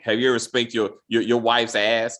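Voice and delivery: low, slowing, lightly seductive imitation. Imitating Angel turning seducer on the detective, mildly seductive. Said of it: "to seducer".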